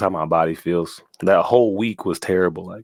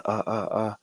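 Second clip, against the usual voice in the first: imitated fighting grunts; 7 dB quieter than usual. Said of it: "trying to fight it".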